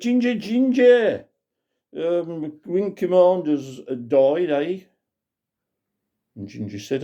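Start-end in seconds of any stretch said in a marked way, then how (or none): 0.0-4.8 alarmed call. Acted. Grandad calling Ginger on the intercom, alarmed. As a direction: call the radio man in a fluster. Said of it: "he said".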